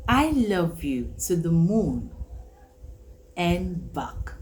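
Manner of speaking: slow, drawn out with pauses before and back; I love you to the moon and back, spaced out to feel far; stretched for distance. Shown as a demonstration. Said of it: "Can you see the distance?".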